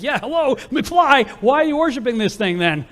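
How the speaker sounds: high, loud, mocking "hello, McFly"; sarcastic comeback. Abram sarcastically mocking his idol-worshipping father. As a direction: rub it in, sarcastically. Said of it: "that's my elaboration".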